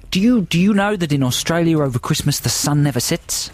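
badly faked Aussie accent; mock Australian accent. Host tells Australian friend his day, mock Australian accent. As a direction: play a chatty Aussie mate. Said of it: "they're very poor Australian accents".

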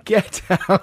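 high squeaky voice; squeaky high put-on voice; chipmunk voice. Camille voice banter continues.

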